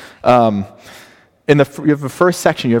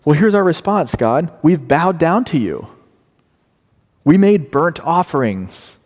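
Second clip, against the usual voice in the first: raised, self-justifying protest; defensive people; 4 semitones higher than usual. Retold or imitated. Preacher voicing the people answering God back. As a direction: list the offerings indignantly. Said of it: "they're saying".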